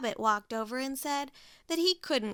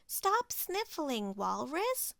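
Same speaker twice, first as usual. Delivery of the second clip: 1 cheerful coaxing; 4 semitones higher, slower than usual. Acted. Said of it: "smiled Pig".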